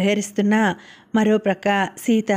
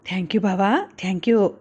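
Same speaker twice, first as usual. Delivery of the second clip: delighted. A narrator's reading. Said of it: "అన్నది సంబరంగా".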